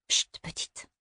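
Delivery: put-on whispered, breathy hush to a child. A narrator's reading. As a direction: shush her in a whisper. Mother hushes the girl. (chuchoté)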